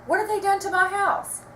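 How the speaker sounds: high, loud, horrified cry; screaming. A narrator's reading. Sarah asking about her house, screaming in horror. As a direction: shriek it at the gossip. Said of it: "screamed Sarah".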